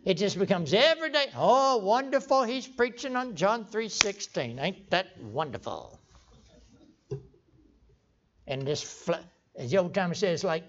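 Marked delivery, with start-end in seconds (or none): 1.3-6.0 mock complacent admiration. Preacher imitating churchgoers used to gospel, slow complacent praise. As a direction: imitate a placid, nodding churchgoer. Mimics over-familiar, unstirred churchgoers.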